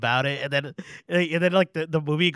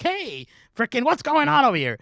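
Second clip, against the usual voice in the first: mock angry complaint; 11 semitones higher, 4 dB louder than usual. Moviegoer complaining to theater staff, hammed-up outrage. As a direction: holler it like a hammed-up outraged customer.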